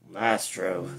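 low-pitched henchman voice; hook-handed henchman. A narrator's reading. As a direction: agree in a low thug's voice. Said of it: "the hook-handed man said".

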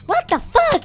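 shocked yell. Acted. Clone repeats his phrase.

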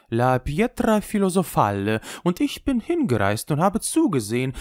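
lightly voiced wry old Italian showman; a worldly old juggler, amused and knowing; old trickster. Old trickster lectures boy.

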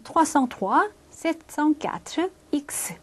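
"trois cent trois", pause, "sept cent quatre", pause, "X"; grouped in threes. Shown as a demonstration. Teacher showing how French speakers read account numbers, grouped in threes. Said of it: "세 개씩 끊어요".

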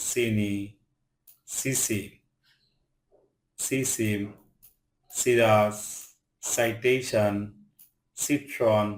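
সিটিজেন, সিগার opening on an "s" sound; each word from সিটিজেন to ইনসাইজ alone, CI with "s". Shown as a demonstration. Teacher reading CI words to learners, "s" in সিটিজেন. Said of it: "সি এর উচ্চারণ দন্ত স মতো হয়".

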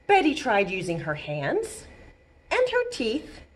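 gentle storytelling read to babies; read-aloud storytime. Acted. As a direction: librarian reading to toddlers. Reading picture book to babies.

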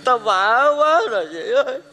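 desperate beggar's whine; begging. Acted. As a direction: plead on your knees, dragging the words. Kneels and begs, bowing for money.

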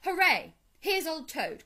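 high, loud cheer; delighted hooray, voice lifted high; excited cry. A narrator's reading. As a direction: cheer an old friend's return. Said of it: "cried the mole".

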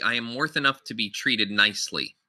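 "nicely" falls as if closing the point; "I am worth enough to be treated nicely" with a closing fall; final-sounding point. Retold or imitated. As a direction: land "treated nicely" like the end of the thought. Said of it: "Felt like the end of your point".

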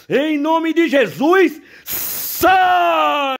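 high, slow then shouted command; exorcist's shouted command. Real, not acted. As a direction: cast the spirit out with full force. Pastor casting out spirits.

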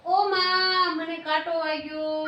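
put-on slow, wailing child's cry of pain; tearful sob over a thorn; crying sparrow. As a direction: wail it like a hurt little bird. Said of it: "ચક્કી બેન તો રડવા લાગ્યા".

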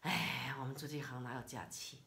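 polite version. Shown as a demonstration. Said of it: "你可以说".

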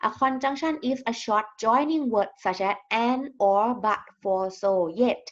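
very slow, word-by-word reading for students; slow dictation reading. Shown as a demonstration. Teacher reading a definition to her class, slow and deliberate. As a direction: spell it out slowly so the class can follow.

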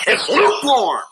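high, loud "lukewarm" hammered; emphatic verdict. Real, not acted. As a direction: slam down the word lukewarm. Repeated verdict on the age.

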